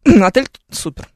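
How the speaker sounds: ordinary talk, nothing marked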